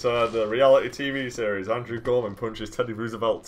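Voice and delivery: playful reality show intro; mock TV announcer. Host introducing Teddy Roosevelt reality series, mock announcer.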